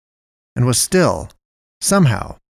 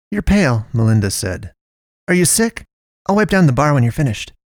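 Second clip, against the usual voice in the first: much higher, brisk worried questions; fussing Melinda; 4 semitones higher, 3 dB louder than usual. Acted. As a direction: check on her then plan to wipe the bar. Melinda voiced high.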